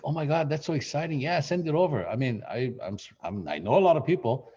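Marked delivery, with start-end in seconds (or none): 0.0-2.1 imitating a thrilled friend, higher; excited friend. Friend hearing the agent's news, mock excited. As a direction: gush a little at the news. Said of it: "And he's like".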